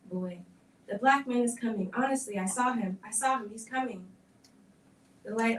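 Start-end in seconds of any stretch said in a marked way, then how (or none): 0.9-4.1 put-on loud, panicked yell of a scared boy; terrified boy screaming. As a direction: shout the warning at the hall in terror. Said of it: "screaming at the top of his voice".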